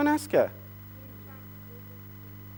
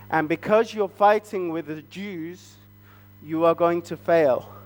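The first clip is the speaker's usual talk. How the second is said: grave warning; 5 semitones lower than usual. Acted. Family warns Haman he will fail, grave warning. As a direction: spell out the bad news gravely.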